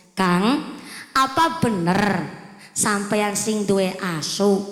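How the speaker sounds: low, slow polite question; a calm respectful inquiry; gentle asking. Shown as a demonstration. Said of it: "nadanya pakai ngilmu".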